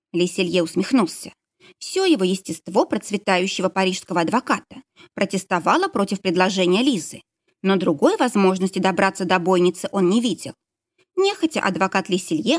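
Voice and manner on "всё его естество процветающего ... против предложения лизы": usual speaking voice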